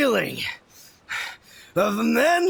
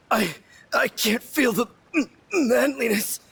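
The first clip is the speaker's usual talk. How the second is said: crying. Acted. Freezing brother breaks down.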